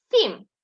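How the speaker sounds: teacher blends sounds into a syllable; blending demo. Shown as a demonstration. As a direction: join the sounds into Сам firmly. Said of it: "Називайте звук".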